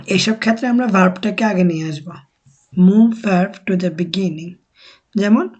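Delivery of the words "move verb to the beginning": each word laid down slowly for learners; slow, deliberate teacher voice; slow rule statement. Shown as a demonstration. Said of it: "teacher stating the rule slowly".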